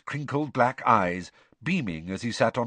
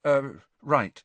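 a touch of sheepish hesitation; hesitate, mildly embarrassed; 5 semitones higher than usual. Acted. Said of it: "said Harry sheepishly".

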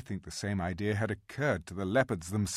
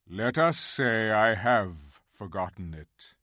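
grave, louder lion voice; 6 dB louder than usual. A narrator's reading. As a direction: answer with solemn weight. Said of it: "answered Aslan gravely".

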